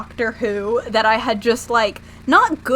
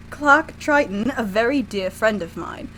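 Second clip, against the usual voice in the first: lightly voiced British professor. Voices the professor reading dialogue.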